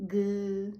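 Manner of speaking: buzzing G; voiced G. Shown as a demonstration. Teacher isolating the voiced G.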